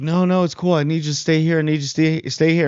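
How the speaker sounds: smooth-talk him into staying put; mock-soothing Sauron. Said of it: "And then he's like".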